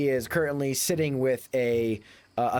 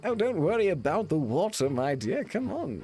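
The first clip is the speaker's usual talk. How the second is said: higher, lightly voiced cooing gent; a hint of a dandy charmer; smarmy suitor; 4 semitones higher than usual. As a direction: coo it like a smug young lover. GM voicing Simon cooing at Beulah.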